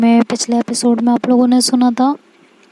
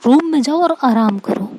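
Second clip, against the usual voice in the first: same order as before, now impatient and mildly raised; mild angry order. Acted. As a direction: bark "room में जाओ" as a fed-up mock scold. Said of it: "चिल्ला पड़ती है".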